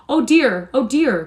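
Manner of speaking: kindly stranger startled by the fit; alarmed cry. A narrator's reading. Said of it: "cried the benevolent stranger".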